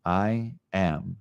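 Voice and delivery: stepping down in tone on each repeat; varying tone. Shown as a demonstration. Teacher shows changing tone on repeats, gently descending. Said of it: "Allow yourself to go up or down in tone".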